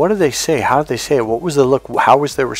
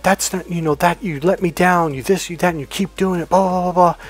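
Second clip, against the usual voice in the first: mild mock anger; 6 semitones higher than usual. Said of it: "you might get mad at them and say".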